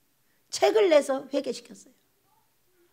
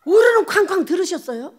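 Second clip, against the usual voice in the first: put-on excited child; 5 semitones higher, 6 dB louder than usual. Child's excited question retold.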